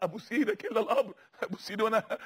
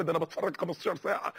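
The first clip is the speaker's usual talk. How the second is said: lower, lazy put-on voice; mock excuse; 6 semitones lower than usual. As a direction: play the careless viewer. Imitating a TV watcher.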